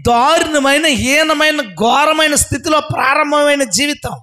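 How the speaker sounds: high, ringing sermon delivery; impassioned preaching. Real, not acted. Preacher proclaims water drawn with joy from wells, impassioned preaching.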